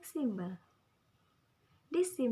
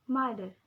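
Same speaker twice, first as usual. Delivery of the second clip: "Mother" with MO hit louder; stress on first syllable; 4 dB louder than usual. Shown as a demonstration. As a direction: punch the start of "Mother", falling away. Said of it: "at the ma".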